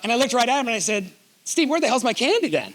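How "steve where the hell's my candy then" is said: mock-indignant jab, laughing through it; laughing mock demand. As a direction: tease him with a laugh in the voice. Joking demand to the driver.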